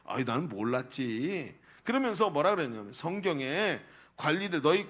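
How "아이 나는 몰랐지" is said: sheepish backing down. Retold or imitated. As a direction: back down like you just got caught. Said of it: "꼬리를 탁 내리면서".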